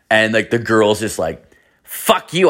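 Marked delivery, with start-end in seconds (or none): 1.8-2.5 high-pitched imitation of an offended woman; mock angry girl. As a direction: snap it high, mocking her refusal. Retold girl refusing his offer.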